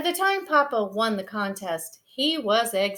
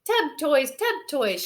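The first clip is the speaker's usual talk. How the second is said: shouting; 6 semitones higher than usual. Acted. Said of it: "shouted the cubs".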